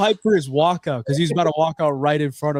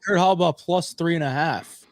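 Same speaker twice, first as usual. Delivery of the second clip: higher-pitched Scottish imitation; mock Scottish accent; 4 semitones higher than usual. Mimicking the co-host's fight picks, mock Scottish accent. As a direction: tease him with a put-on Scottish accent. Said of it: "taking your piss at my accent".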